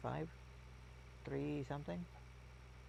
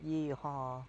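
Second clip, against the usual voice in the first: a quick Southern yell of yee-haw; mock cowboy yee-haw. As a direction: whoop it like a cartoon cowboy. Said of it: "It's not".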